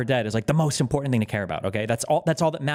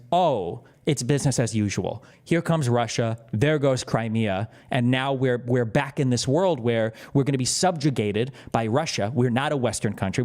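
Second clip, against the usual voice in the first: lightly voiced weary resignation, lower; resigned; 4 semitones lower than usual. Speaking for Ukrainians watching Russia take Crimea, mildly resigned. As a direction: voice it as a low, let-down sigh of acceptance.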